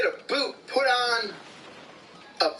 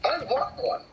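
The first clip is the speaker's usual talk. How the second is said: much higher, breathy admiration; gushing awe; 8 semitones higher than usual. Real, not acted. Admiring a pickup truck, gushing awe. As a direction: swoon over it.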